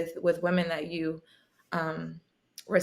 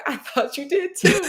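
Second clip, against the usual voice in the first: quoting her friend; 8 semitones higher, 5 dB louder than usual. Retold or imitated. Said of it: "She was like".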